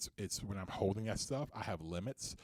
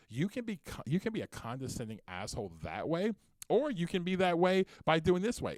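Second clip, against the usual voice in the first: imitating loud passion; 8 semitones higher, 6 dB louder than usual. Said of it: "versus those who talk like this".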